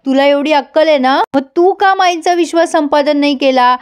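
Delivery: mildly acted indignation; irritated husband. Husband retorts to his wife's monkey insult, mildly irritated. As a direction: throw the accusation back, a touch annoyed. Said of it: "पण आता सत्या चिडतो आणि म्हणतो".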